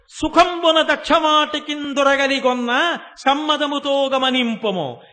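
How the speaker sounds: slow, loud verse recitation; loud recited verse. Retold or imitated. The preacher reciting the mother's verse to Vyasa, loudly. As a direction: chant the poem slowly and loudly.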